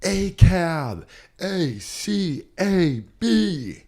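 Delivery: mock drunk heckler shouting the letters; spelling it out slow and loud; heckler yelling. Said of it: "she goes".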